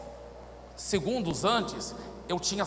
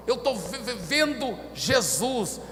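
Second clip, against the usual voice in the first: raised, halting stutter before the word comes; imitated terrified stammer; 5 semitones higher, slower than usual. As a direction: force it out haltingly, in acted dread. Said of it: "ele não conseguia nem falar". (gaguejando apavorado, voz aguda)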